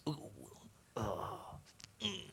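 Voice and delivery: playful wincing. Acted. Preacher asking about last year's exercise, wincing softly. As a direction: trail down into small mock groans.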